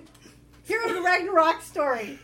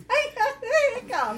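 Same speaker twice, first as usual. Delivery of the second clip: giggling through the words; laughing; 9 semitones higher than usual. Real, not acted. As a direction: laugh while you say it. Laughing at a dice roll.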